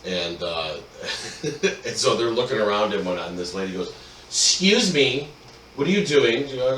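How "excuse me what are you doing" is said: drawn-out, raised "excuse me"; mock indignant challenge. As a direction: play a nosy lady confronting trespassers. Acting suspicious lady confronting geocachers.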